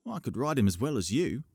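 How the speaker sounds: put-on cheeky boy's boast; bold. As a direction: brag right back at him. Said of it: "bold as you please".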